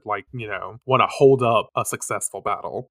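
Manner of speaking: ordinary delivery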